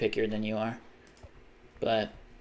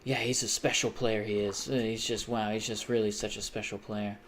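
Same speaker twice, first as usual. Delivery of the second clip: lightly voiced football pundit praising a player; mock pundit gush; 4 dB quieter than usual. Lightly mocking football pundits praising Messi. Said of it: "one of those compilations where people talk about".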